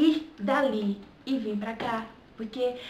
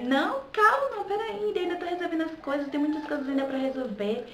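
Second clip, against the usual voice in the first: much higher mock dad saying calm down, slowing then rushing; father's voice; 5 semitones higher than usual. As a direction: imitate dad brushing her off in a high voice. Father brushing off her request.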